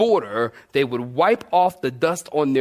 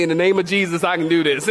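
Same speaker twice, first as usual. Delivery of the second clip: self-pep talk; faster than usual. Shown as a demonstration. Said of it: "some stuff you just gotta say".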